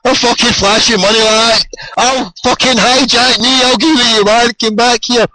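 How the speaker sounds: high-pitched shout after a departing taxi; retold shout. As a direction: yell it up high at a car pulling away. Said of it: "I'm shouting".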